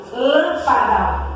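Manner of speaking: "Lâmpada" slowly, weight on "Lâm"; slow teaching demo of "Lâmpada"; stress on first syllable. Shown as a demonstration. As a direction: stretch the opening "Lâm" of "Lâmpada". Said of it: "A sílaba tônica é a antepenúltima".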